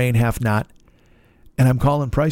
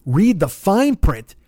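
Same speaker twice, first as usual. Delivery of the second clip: mocking clerk; 6 semitones higher, much slower than usual.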